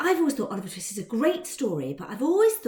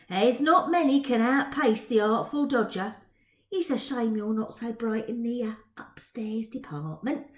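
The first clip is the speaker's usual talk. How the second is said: mocking Dodger. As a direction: needle her with sly swagger.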